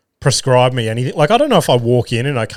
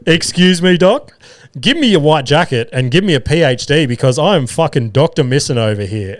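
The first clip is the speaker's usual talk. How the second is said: gloating. Retold or imitated. Patient gloating to the doctor he was right, smug. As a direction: rub it in, mock triumphant.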